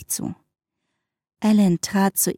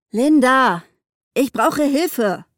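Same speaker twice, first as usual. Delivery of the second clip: louder, higher shout with drawn-out words; calling out; 4 semitones higher, 3 dB louder, slower than usual. A narrator's reading. Alan calls to Linda from his truck for help, calling out. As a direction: call for help, pitched up. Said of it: "rief er".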